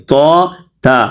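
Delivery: تو thick and dark, then تا thin and light; heavy versus light. Shown as a demonstration. Teacher contrasts two similar letters, تو heavy, تا light. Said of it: "ہم آواز حروف انہیں کہتے ہیں".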